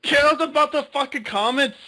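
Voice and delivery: high, loud mock-Scottish outburst; Scottish accent. Playing the Doctor dismissing online comments, mock Scottish accent. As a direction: spit it out in a hammed-up Scottish accent. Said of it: "butchering their tongue right now".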